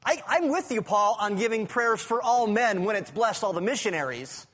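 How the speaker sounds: indignant objector. Acted. Preacher voices indignant objector to Paul.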